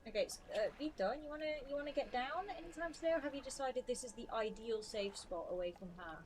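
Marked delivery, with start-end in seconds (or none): 0.8-4.8 coaxing the dog. Real, not acted. Coaxing the dog off her lap.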